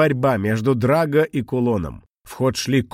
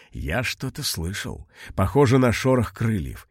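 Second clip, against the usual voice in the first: frightened whisper. Acted. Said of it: "испуганно прошептал старик".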